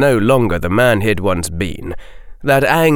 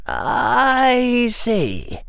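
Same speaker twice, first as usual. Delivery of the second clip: careful. Acted. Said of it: "Harry said carefully".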